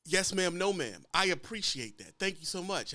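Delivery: polite driver. Retold or imitated. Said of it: "they're polite".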